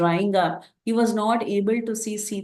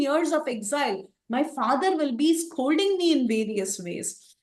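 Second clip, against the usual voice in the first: raised, pleading voice of a despairing son; lamenting; 6 semitones higher than usual. Acted. Rama dreading Dashrath's scolding, higher despairing lament. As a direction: fret aloud about facing father, higher. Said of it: "he started lamenting".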